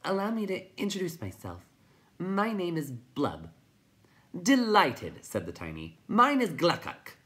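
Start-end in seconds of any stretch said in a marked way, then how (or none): 0.0-3.5 high little creature voice; timid creature. A narrator's reading. Will-o'-the-Wisp introduces itself, timid high voice. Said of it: "coming timidly closer". 4.4-5.2 high, loud little creature; chirping. A narrator's reading. Tiny greets the newcomer, high chirp. 6.1-7.2 high, loud little creature; chirping. A narrator's reading. Tiny introduces himself, high loud chirp.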